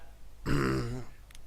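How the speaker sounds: short effortful grunt; jumping grunt. Pretend. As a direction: grunt like a game character jumping. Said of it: "I made a jumping noise".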